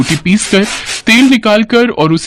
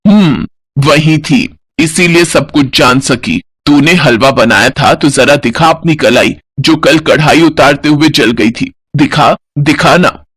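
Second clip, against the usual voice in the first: knowing mother-in-law; 4 semitones lower than usual. Acted. Mother-in-law exposing lie.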